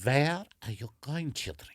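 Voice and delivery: put-on German papa calling the children over; German accent. Father calling children over to show them something, German accent.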